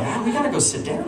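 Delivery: high, mock-drowsy parent; sleepy. Drugged parents heading to the couch, mock sleepy. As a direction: imitate someone getting woozy. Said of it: "started getting really kinda sleepy".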